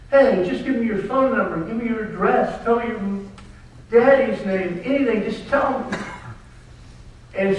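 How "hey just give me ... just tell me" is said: Dad's eager plea. Retold or imitated. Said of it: "and he says".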